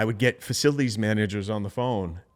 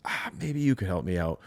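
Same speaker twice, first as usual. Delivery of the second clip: hesitant soft ask; 3 semitones lower, 5 dB quieter than usual. Shown as a demonstration. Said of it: "that short little phrase".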